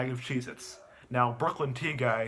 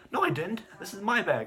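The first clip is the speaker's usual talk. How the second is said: put-on bratty kid denial; 6 semitones higher than usual. Boy denies stealing.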